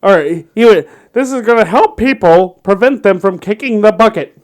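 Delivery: lightly voiced radio sports announcer; a hint of a play-by-play radio call. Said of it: "I'm gonna do my best announcer voice here".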